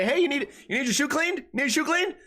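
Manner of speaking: high, eager sales pitch at the urinal; pushy mall vendor. Retold or imitated. Vendor hounding a man at the stall, high pushy pitch. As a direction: pester him like a vendor hustling for shoe shines. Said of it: "trying to say".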